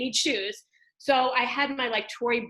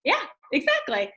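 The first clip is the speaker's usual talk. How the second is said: wry agreement; 4 semitones higher, 4 dB louder than usual. Retold or imitated. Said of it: "And I'm like".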